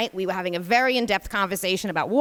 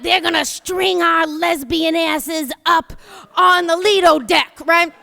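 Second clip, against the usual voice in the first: mock panic rant; 5 semitones higher, 3 dB louder than usual. Retold fearful rant.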